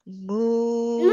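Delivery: drawn-out cow moo. Shown as a demonstration. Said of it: "the cow sounds like".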